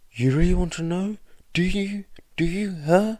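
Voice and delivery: high, loud, fast taunting; enraged taunt. A narrator's reading. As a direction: throw it back in his face.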